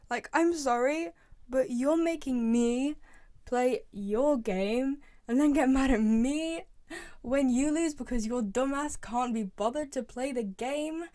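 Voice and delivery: exasperated scolding, leaning hard on key words; indignant rant. Real, not acted. Player scolding Toy Freddy for losing the game, indignant. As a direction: tell off a useless teammate in disbelief.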